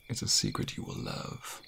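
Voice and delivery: breathy, very soft, slowing down; intimate whisper. Acted. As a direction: murmur between kisses. Kissing his lover.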